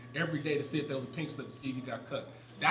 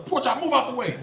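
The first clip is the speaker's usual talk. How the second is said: raised, higher mimicked command; urgent order; 7 semitones higher, 7 dB louder than usual. Ex-player acting a fired-up teammate taking his bar, urgent shouting. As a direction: push a teammate aside with your voice. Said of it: "He jumps up".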